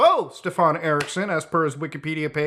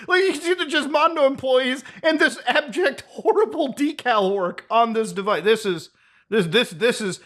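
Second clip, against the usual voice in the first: laughing; 4 semitones higher than usual. Real, not acted. Laughing at the Ferrari decals.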